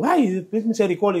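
high, drawn-out mock wail; high retold plea; imitated crying out. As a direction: cry out slowly for mercy, mimicking. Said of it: "dando gritos".

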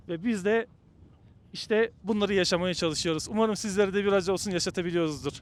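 stiff lips, words slightly slurred; talking with a cold-numbed mouth. Real, not acted. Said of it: "Ondan böyle konuşuyorum". (soğuktan uyuşmuş ağız)

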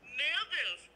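high, overwhelmed exclamation; excited. Real, not acted. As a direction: still can't believe it. Caller still overwhelmed.

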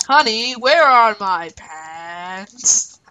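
husband voice. Pretend. Plays a husband asking his wife.

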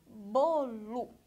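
"bolo" in two loud, separated syllables. Shown as a demonstration. Teacher showing children how syllables sound, syllable by syllable. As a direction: split "bolo" clearly into bo and lo. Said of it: "dá pra diferenciar as sílabas".

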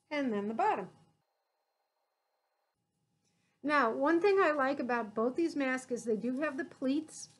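muffled through cloth mask; speaking behind covered mouth; through a face mask. Real, not acted. Seen 1: Pleated surgical mask tied over mouth and nose throughout the labelled words.

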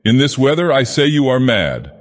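high-pitched, incredulous outburst; sharp cry. A narrator's reading. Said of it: "cried the fisherman sharply".

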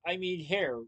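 high, loud outraged yell; yelled, then easing on the correction; screaming. A narrator's reading. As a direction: shout after someone running off. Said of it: "Pronto screamed".

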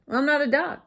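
loud, high comeback; storybook coyote talking back; indignant retort. A narrator's reading. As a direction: correct them, affronted. Coyote retorts to yelling cactus.

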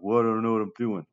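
lightly voiced lost student, a bit quick; a mild take on a student who is lost; confused student. Teacher mimics a lost student before showing the way, lightly put-on. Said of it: "this really isn't as bad as it sounds like".

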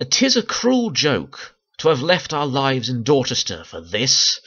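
slow mock Irish-Yorkshire-West Country accent; stagey line in a badly mixed accent; terrible mishmash accent. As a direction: lightly imitate a muddled regional English and Irish accent. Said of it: "in his terrible accent".

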